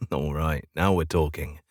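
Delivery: says it through a light chuckle; a little laugh, then the words; chuckling. Acted. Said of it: "I chuckle".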